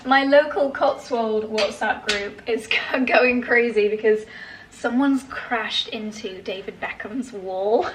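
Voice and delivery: real giggles breaking into the news; amused laughing. Real, not acted. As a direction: tell it while trying not to laugh. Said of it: "I'm laughing at the fact".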